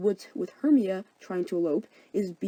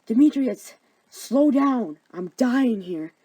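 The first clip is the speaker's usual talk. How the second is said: higher, louder breathless chase voice; panting Helena; 3 semitones higher, 6 dB louder, slower than usual. Acted. Helena chasing Demetrius through woods, breathless and loud. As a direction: gasp after him, worn out.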